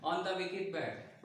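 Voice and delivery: slow, word-by-word example; slow, deliberate example sentence; slow teaching model. Shown as a demonstration. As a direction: dictate it slowly to the class. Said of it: "हम लोग बोलते हैं जैसे".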